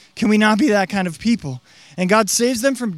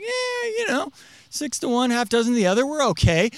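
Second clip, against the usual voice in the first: mock indifference; 3 semitones higher than usual. Mocking a lukewarm attitude.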